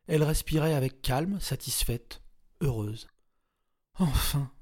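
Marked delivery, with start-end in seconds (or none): none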